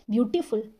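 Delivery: ब्यूटीफुल with a slight gap before फुल; broken into syllables. Shown as a demonstration. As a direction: lightly split ब्यूटीफुल in two. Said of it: "ऐसे ही तो बोला जाता है".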